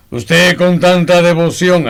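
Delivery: amused, laughing through the words. Acted. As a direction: say it with a chuckle as you teasingly compliment him. Amused remark to storyteller.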